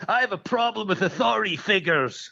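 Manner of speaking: high, put-on tough-guy voice; mock tough guy. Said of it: "he goes".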